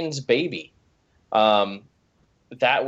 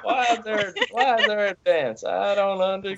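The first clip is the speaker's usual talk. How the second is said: high, puzzled redneck voice; 9 semitones higher than usual. Retold or imitated. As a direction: join in on the hillbilly bit. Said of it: "in, like, a redneck voice".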